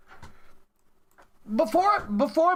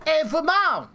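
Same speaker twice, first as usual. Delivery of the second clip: mock robot voice; 6 semitones higher, slower than usual. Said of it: "They're gonna be like".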